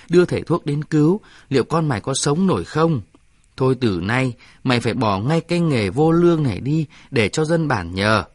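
elder scolding the shaman, building up; dằn giọng quở trách; stern scolding. Acted. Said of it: "dằn giọng".

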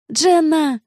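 a sudden high, loud cry of her name; hysterical yell. A narrator's reading. Noa yelling at Jenna answering the phone. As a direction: scream her name to stop her. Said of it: "Я в истерике выкрикнула её имя".

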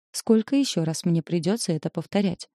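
plain reading voice

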